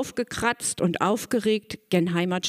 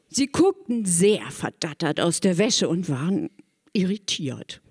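plain reading voice

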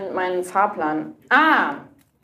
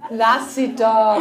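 laughing; 3 dB louder, much slower than usual. Real, not acted. Laughing slow repeat.

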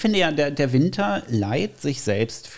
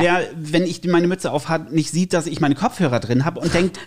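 higher, emphatic indignant retelling; retold exasperation; 4 semitones higher than usual. Son retells telling mum off over the phone, exasperated. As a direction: argue your case to mum, mildly worked up.

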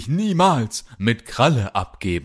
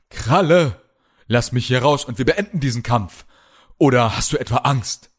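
defiant challenge; 4 semitones higher than usual. Acted. Chained hero challenges captor.

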